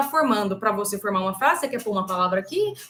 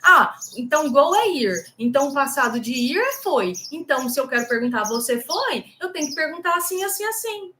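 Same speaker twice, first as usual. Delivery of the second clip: mock student reasoning; 3 semitones higher than usual. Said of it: "conforme você acha que é o certo".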